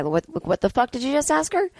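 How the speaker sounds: menacing handler voice; gonna rough you up guy. Pretend. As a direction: play a tough guy ready to rough someone up. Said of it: "the gonna rough you up guy".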